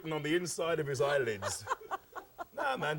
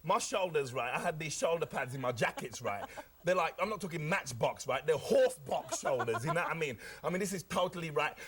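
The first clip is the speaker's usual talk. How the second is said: Cockney hustler. Acted. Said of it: "Delbert Wilkins talks like this".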